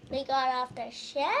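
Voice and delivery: they got off the shed? as a question; question rise. Shown as a demonstration. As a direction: turn it into a question, rising on got. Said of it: "I was gonna say".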